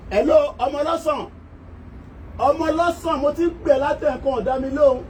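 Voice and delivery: high sing-song call to a street seller; calling out to a hawker. Retold or imitated. Buyer hailing an orange-selling child from the house, high calling voice.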